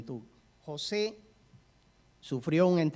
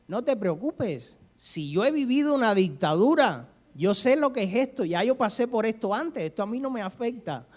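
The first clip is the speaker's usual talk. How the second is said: put-on Argentine accent, higher and louder, proclaimed out loud; 5 semitones higher, 5 dB louder than usual. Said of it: "en alta voz y hablando como argentino".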